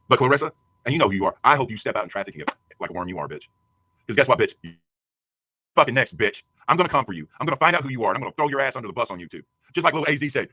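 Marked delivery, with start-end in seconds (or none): 0.1-8.9 angry threats. Real, not acted. Threatening Clarissa directly.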